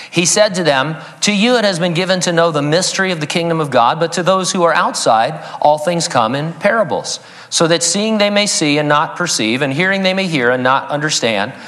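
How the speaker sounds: measured, solemn Bible reading; scripture reading. Acted. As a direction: read it like the holy text it is. Reads scripture to congregation.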